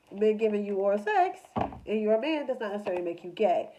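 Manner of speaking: usual speaking voice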